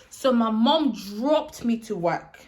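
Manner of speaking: slow recall. Real, not acted. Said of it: "Uh-huh, I remember".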